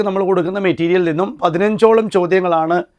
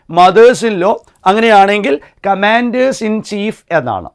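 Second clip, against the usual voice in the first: "mothers" and "commanders" said slowly, with the plural s made clear; teacher stresses the plural "commanders in chief"; plural s stressed; much slower than usual. Shown as a demonstration. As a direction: bring out the added s slowly. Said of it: "അന്നേരം എന്തായി മാറും".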